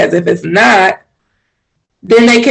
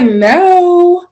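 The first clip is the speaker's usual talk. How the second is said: a blunt, cold "No." pitched way up; curt no; 11 semitones higher than usual. Retold or imitated. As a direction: snap the "No." short and dismissive. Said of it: "but they be like".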